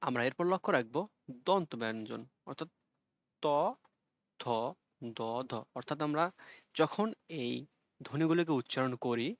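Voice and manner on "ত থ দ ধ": "ত, থ, দ, ধ" one at a time, tongue tip on teeth; touch the teeth with the tongue for "ত, থ, দ, ধ"; dental consonants. Shown as a demonstration. Teacher demonstrates for students, "ত, থ, দ, ধ" as separate dental sounds. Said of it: "ডগা দাঁতের সঙ্গে লেগে উচ্চারিত হয়".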